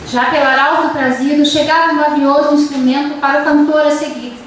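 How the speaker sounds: serious, measured reading of the verse; teacher reading epic verse aloud to the class; epic recitation. Shown as a demonstration. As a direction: read the canto with a steady serious tone. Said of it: "o tom épico é um tom imponente".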